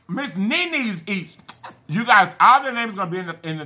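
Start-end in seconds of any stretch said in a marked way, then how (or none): 0.1-1.4 slow and softer; slowly repeating a fan's name. Real, not acted. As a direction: draw the name out carefully.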